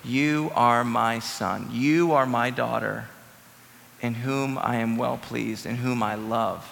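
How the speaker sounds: slow, tender heavenly voice. Retold or imitated. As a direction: speak slowly like a loving father. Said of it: "a voice from heaven said".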